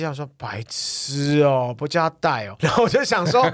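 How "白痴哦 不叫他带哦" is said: drawn-out, exasperated insult; mild mock irritation, first words very slow; retold sudden temper. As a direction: lightly imitate an irritated brother dragging out the words. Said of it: "突然一个脾气".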